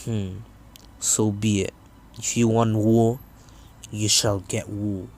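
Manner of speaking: Pain's voice. Retold or imitated. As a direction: accept the war coldly. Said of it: "Yahiko then says".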